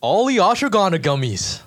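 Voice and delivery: upbeat radio announcer read. Shown as a demonstration. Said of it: "your radio announcer voice".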